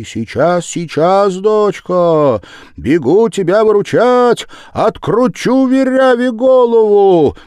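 громко и высоко, нарастая к угрозе; кричать издалека, спеша на помощь; грозный крик матери. A narrator's reading. Мать спешит на выручку. (громкий крик матери, грозящей Веряве)

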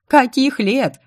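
high, loud indignant shout; angry shout. A narrator's reading. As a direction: keep yelling in outrage. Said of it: "заорала я".

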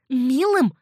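high, loud scornful echo; scornful hiss. A narrator's reading. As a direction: throw the word back in contempt. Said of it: "прошипела Риган". (презрительно, громко и высоко)

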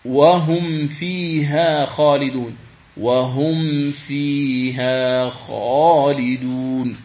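وهم فيها خالدون chanted very slowly, ميم of وهم held; tajwid recitation. Shown as a demonstration. المعلم يرتل الآية ببطء. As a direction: recite the verse drawn out. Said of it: "أيضًا في قوله تعالى".

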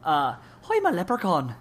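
light Irish leprechaun voice; a touch of Irish brogue; Irish accent. Acted. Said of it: "in an Irish accent".

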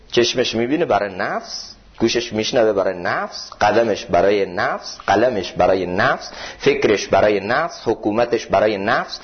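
each برای نفس ends on a rise, slow; rising list cadence. Acted. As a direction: chant the list, lifting every نفس. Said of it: "list with repeated rising ends".

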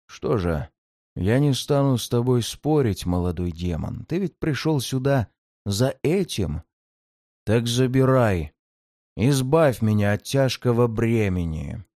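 low, tired dying demon; weary demon voice. Acted. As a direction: hand over the burden wearily. Demon offers the shard.

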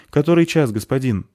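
high, loud anxious question; urgent. A narrator's reading. Flustered novice asks Polchik the time, urgent.

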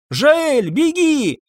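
very high panicked scream; desperate shouted warning. A narrator's reading. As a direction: yell for him to run. Maria screams again.

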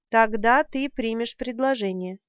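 plain reading voice

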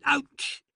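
sharp high yelp of tooth pain; sudden ouch. Acted. Doctor breaking off mid-sentence, yelping in pain.

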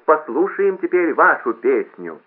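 slow, high, loud jeering announcement; drawn-out derisive emcee voice; mocking. A narrator's reading. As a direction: taunt him before the whole hall. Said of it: "сказал громкоговоритель насмешливым тоном".

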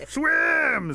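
high, loud, falling yell; one big stretched-out shout; urgent shout. A narrator's reading. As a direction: holler it at someone fleeing. Rabbit urging Otter away.

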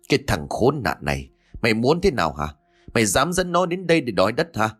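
lightly voiced furious father; mild teeth-gritting fury. Father grits his teeth at his son, mild acted fury. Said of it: "nghiến răng ken két rồi nói".

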